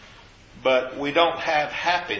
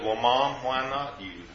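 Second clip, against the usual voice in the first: gently, a little softer; kindly; 4 dB quieter than usual. Retold or imitated. Son gently answers his mother with cancer, kindly. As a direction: ease it out kindly to a frightened mother. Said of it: "very kindly".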